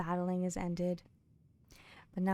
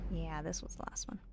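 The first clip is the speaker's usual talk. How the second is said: whisper; 3 semitones lower, 6 dB quieter than usual. Real, not acted. Muttering to self checking books.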